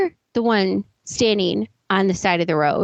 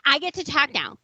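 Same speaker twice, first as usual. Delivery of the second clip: mocking quote; faster than usual. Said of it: "So I'm gonna talk like this, really exaggerated".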